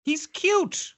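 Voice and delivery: squeaky doting voice; high cutesy voice. Pretend. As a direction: pitch up, gush over him.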